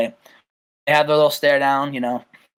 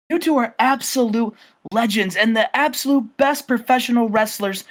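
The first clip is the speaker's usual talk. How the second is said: higher-pitched, fired-up wrestling promo voice; Lance Storm promo; 4 semitones higher than usual. Retold or imitated. Lance Storm on the microphone rallying Bret and Owen, hyped and higher. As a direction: pump up the Hearts like a hype man on the mic. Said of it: "he grabs the microphone".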